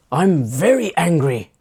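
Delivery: mock anger leaning on "very"; acted escalating anger. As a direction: push the pretend anger a step further. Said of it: "they're getting louder".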